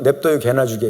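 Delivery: low-pitched Chungcheong grumble; understated Chungcheong retort, voice dropped low; Chungcheong dialect. Retold or imitated. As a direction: imitate a deadpan Chungcheong vendor turning down a deal. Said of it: "충청도식 화법인 거예요".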